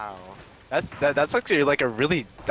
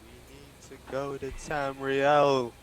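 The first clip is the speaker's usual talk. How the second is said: slow quoted voice; 2 semitones higher, slower than usual. Retold or imitated. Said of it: "It was like".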